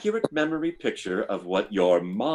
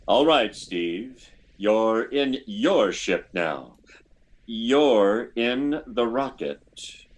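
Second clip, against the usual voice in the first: hypnotic suggestion. Acted.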